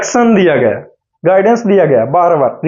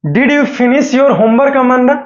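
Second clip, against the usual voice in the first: "Did you finish your homework, Amanda?" read very slowly and higher; slow reading aloud; 4 semitones higher, much slower than usual. Shown as a demonstration. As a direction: read the line slowly, word by word. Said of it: "देखिए". (धीमे-धीमे पढ़कर सुनाना)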